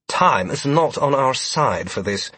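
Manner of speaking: impatient warning. A narrator's reading. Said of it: "began to warn impatiently".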